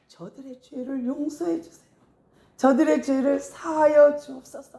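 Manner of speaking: pleading prayer. Acted. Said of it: "예수님이 뭐라 그래요".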